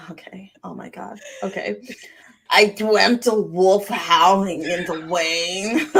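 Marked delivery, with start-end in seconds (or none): 2.5-5.9 creepy voice. Acted. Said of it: "read it in a creepy voice".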